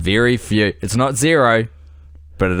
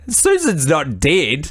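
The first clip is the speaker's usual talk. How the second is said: slow, higher deadpan correction; a hint of pilot character, slowed and raised; lightly voiced pilot; 4 semitones higher, much slower than usual. Cohost voices pilot correcting the widower's story, slow mock correction. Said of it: "The guy's like".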